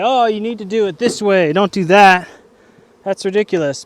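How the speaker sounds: know-it-all beekeeper. Retold or imitated. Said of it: "a more experienced beekeeper probably would say".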